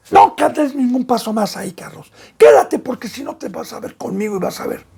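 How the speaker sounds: a firm scolding threat; stern warning father. Acted. Father threatening his son so he stays put. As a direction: warn the child sharply. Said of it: "tengo que asustarlo".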